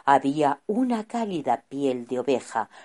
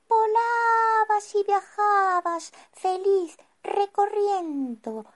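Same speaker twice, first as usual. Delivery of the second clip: serene, higher wise wizard. Acted. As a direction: speak serenely and wisely. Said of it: "con voz serena".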